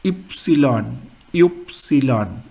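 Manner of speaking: Epsilon said as the name of Y, slowly; German letter name. Shown as a demonstration. Teacher naming the letter Y for learners, German letter name. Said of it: "Y is".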